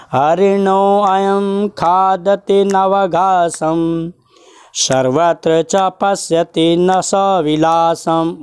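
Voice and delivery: slow, measured chant of a Sanskrit shloka; slow verse recitation. Shown as a demonstration. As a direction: recite the verse slowly, syllable by syllable. Teacher recites next verse.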